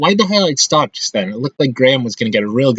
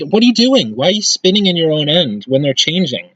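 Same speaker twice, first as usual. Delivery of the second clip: exasperated yell; 5 semitones higher than usual. Real, not acted. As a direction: yell at a careless player. Yelling at player's blunder.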